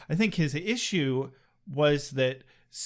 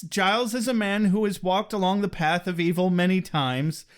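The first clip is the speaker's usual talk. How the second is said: mock-dramatic oration; 3 semitones higher than usual. Podcaster narrating Giles's path of evil, hammed-up drama.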